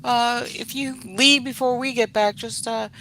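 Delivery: high light mock parent voice; breezy, casual parents reassuring. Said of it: "and they were like".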